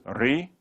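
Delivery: ri with r plus "ee"; r vowel as ri. Shown as a demonstration. Teacher showing second of three ways, ri. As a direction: spread the r into ri. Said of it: "can sound like ri".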